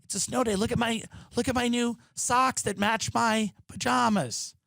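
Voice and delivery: high, sing-song, smug and dreamy; mocking pampered voice. Mocking a pampered quarantiner, high smug sing-song. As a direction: coo it like a spoiled kid showing off.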